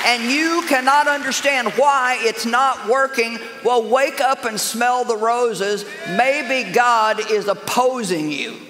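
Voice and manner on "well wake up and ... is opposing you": slow emphatic preaching. Acted. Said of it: "preaching climax".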